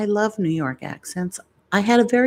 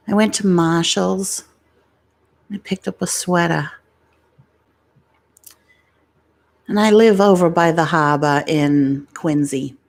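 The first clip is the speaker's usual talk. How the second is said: mock Boston accent impression. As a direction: put on a thick Boston accent. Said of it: "It's exactly how he talks".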